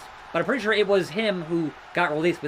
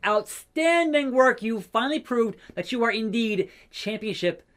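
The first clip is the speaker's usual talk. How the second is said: mock boss praise; 5 semitones higher than usual. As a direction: play the company boss handing out praise. Voices boss praising player.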